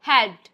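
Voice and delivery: loud, one-syllable "हेल्प्ड"; only the end sound. Shown as a demonstration. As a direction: punch out "हेल्प्ड" with no vowel after p. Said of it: "सिर्फ डी का sound".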